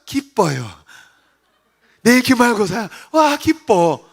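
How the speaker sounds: loud, absurdly gleeful outburst; mock delight at bad news; sudden joy. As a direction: switch abruptly to hammed-up joy. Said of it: "갑자기 기뻐해".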